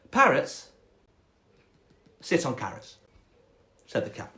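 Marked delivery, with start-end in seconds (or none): 0.1-3.0 snobby cat. Acted. Cat answering about parrots, snobby and deliberate. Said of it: "quite a snobby cat".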